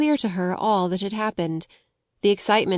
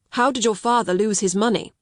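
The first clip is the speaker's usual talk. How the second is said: breathless. Acted. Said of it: "broke in breathlessly".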